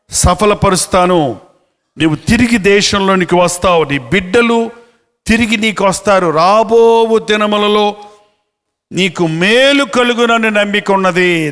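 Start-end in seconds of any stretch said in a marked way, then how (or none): 6.3-11.5 slow scripture reading. Acted. Slow verse recitation.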